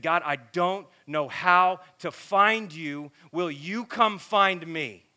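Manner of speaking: loud, slow plea to God; retold bawling prayer. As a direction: cry out to God, drawn out, without real sobs. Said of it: "he just started bawling".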